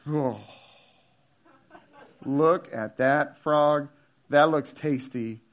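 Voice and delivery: slow, low, entranced fish voice; awed fish. Acted. Fish eyeing a frog lure, hushed awe.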